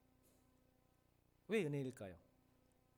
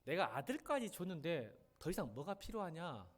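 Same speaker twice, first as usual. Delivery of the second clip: offhand, slowed shrug of a line; cool dismissive reading; slower than usual. Shown as a demonstration. Pastor shows the wrong, casual reading. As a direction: read it like God is bragging, slowly. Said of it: "혹시 이렇게 들리세요?".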